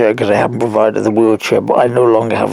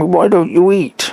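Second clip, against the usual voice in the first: mock nurse; 7 semitones higher than usual. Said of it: "the nurses said to me".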